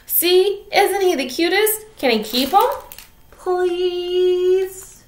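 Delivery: put-on pleading girl. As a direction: beg mom sweetly to keep him. Lucy begs mom for pet.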